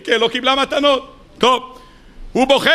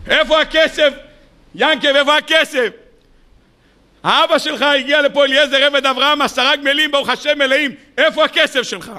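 demanding Laban; 4 semitones higher than usual. Acted. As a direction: pester him for the money. Laban demands money from Jacob.

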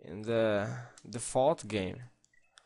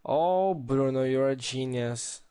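surprised oh; 3 semitones higher, 3 dB louder than usual. Real, not acted. Sudden delighted discovery.

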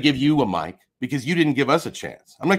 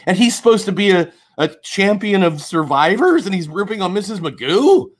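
heated, raised voice of rage; furious rant; 5 semitones higher than usual. Real, not acted. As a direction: tear into him, furious. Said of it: "But I'm furious. I'm shaking with rage".

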